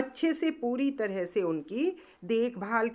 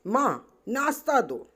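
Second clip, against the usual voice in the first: shouting; 3 semitones higher than usual. Acted. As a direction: call out to mother, demanding. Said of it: "तुलतुल चिल्लाकर बोली".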